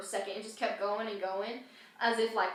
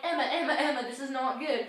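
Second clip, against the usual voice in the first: urgent whisper-shout; 3 semitones higher than usual. Retold or imitated. Teen retells waking her friend, calling Emma in mock panic.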